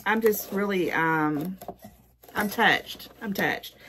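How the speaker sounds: halting, with searching pauses; lost for words. Real, not acted. Gift receiver thanking a friend, touched and lost for words. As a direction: stall and restart, genuinely touched. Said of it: "this is me being a loss for words".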